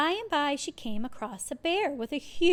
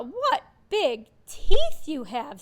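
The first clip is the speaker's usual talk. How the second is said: put-on nervous girl; 4 semitones higher, 12 dB louder, slower than usual. A narrator's reading. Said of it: "said Little Red Riding Hood".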